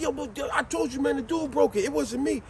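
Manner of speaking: high, protesting voice; defensive friend. Retold or imitated. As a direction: deny it was you. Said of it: "He said".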